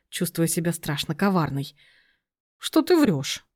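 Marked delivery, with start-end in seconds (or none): 2.6-3.5 indignant, pitched sharply up; outraged retort. Acted. Aunt, accusing Lena of lying, high outraged retort. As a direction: snap back in disbelief. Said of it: "возмутилась Татьяна".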